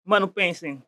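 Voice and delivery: chewing while talking; talking around a mouthful; mouth full. Real, not acted. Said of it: "eu vou falar mastigando".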